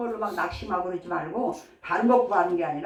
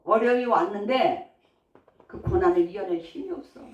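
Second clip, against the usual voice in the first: normal talking voice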